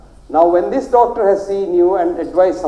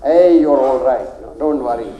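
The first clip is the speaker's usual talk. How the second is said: calm reassurance; 4 semitones lower than usual. Retold or imitated. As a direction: reassure the patient gently, taking your time. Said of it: "tap him on the back and say".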